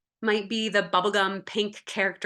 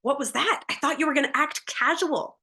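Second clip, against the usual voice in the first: higher, fretful Fear voice; Fear character; 6 semitones higher, faster than usual. Acted. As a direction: fret like a nervous cartoon Fear. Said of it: "And Fear says".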